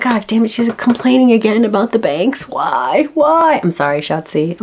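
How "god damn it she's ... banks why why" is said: a hint of a fed-up husband groaning; mock exasperated husband. Husband groaning as she complains about banks again, lightly mock exasperated. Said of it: "he's just like".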